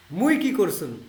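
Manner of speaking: মুই কি করছুন said in Rangpur Bangla; Rangpur dialect. Shown as a demonstration. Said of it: "আমরা রংপুরে বলি যে". (রংপুরের আঞ্চলিক উচ্চারণে)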